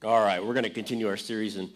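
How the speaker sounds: big hall echo; echoey. Real, not acted. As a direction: voice echoing in the room. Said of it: "I sound a little echoey".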